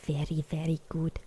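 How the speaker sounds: put-on playful whispered German accent; bad German accent. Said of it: "I can't even do a German accent".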